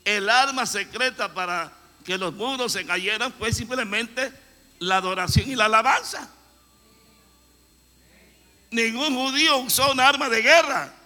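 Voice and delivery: loud, high sermon climax; fiery preaching. Acted. Preacher rousing the congregation, loud and high. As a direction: preach it out to the whole church.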